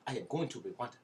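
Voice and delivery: mock Rwandan accent, carefully unclipped words. Podcaster announcing a move to Rwanda, mock Rwandan accent. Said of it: "I'm going to talk like this".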